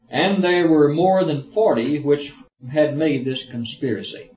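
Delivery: slow, measured Bible reading; formal, unhurried reading-aloud voice; scripture reading. Acted. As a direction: read the verse out deliberately.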